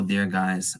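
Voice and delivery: ordinary delivery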